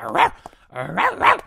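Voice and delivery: imitating barking. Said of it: "aggressive with the barks".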